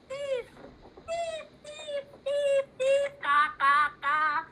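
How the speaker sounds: high squawking crow cry, ending in caws; crow call. Acted. Crowley the crow repeats the word, a high squawk. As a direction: squawk it like a crow copying a child.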